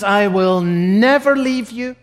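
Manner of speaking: slow, sinking to softness; solemn tender vow fading away; slow solemn promise. Acted. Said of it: "God says".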